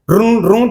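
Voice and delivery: short double buzz made with the voice; imitated phone vibration. Teacher showing that silent phones still distract, imitated vibration buzz. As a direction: mimic a buzzing phone. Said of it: "સાયલેન્ટમાં vibration તો થાય ને".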